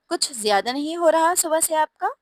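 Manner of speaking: lightly voiced nagging wife, challenging him; quarrelsome wife. A narrator's reading. Wife scolding her preening husband, like a quarrelsome wife. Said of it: "लड़ाका बीवियों की तरह".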